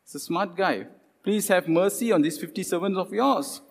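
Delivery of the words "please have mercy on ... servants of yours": mock pleading captain. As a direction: beg like a captain on his knees. Smart captain begs for mercy.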